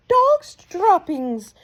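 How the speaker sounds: slow, high, loud yell. A narrator's reading. Mildred yells her discovery to the witches, slow. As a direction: drag the words out in disgust. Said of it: "she yelled".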